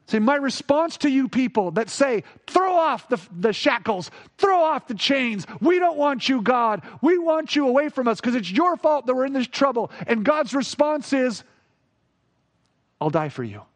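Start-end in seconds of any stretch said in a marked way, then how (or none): 2.5-9.9 defiant rebels. Retold or imitated. Rebellious people shouting at God, mock angry. 13.0-13.6 tender. Retold or imitated. God's tender response.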